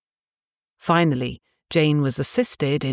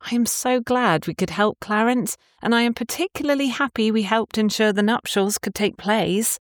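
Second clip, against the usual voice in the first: lightly voiced young woman; 7 semitones higher than usual. Tabitha voiced, higher.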